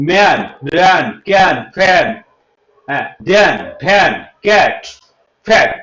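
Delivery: words like ম্যান with an open 'ae' vowel; teacher's word list, ম্যান with a drawn open 'ae'; open 'ya' vowel demo. Shown as a demonstration. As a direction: say ম্যান, ক্যান, ফ্যাট one by one, vowel stressed. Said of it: "এ উচ্চারণ হবে".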